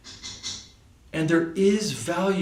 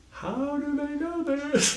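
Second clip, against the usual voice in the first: much higher and slowly drawn out in amazement; stunned disbelief; 13 semitones higher, slower than usual. Retold or imitated. Recalling Russian border questioners who knew everything, amazed. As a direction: let the question float up in bewilderment.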